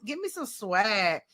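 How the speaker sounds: slow, stretched-out playful demand; drawn-out swagger. Retold or imitated. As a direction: draw out each word with swagger. Demanding swag from chatbot.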